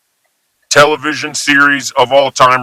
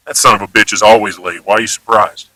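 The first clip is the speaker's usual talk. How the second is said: negative example; 3 semitones lower, faster than usual. Shown as a demonstration. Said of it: "with a negative context".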